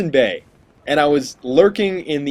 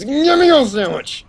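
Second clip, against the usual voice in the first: squeaky high demand; 12 semitones higher, 5 dB louder than usual. Acted. Mocking the enemy player, very high squeaky whine. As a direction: squeal it like a silly voiced enemy.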